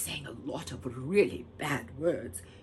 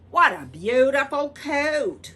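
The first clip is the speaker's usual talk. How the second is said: admiring fairy; 10 semitones higher, 13 dB louder, slower than usual. Acted.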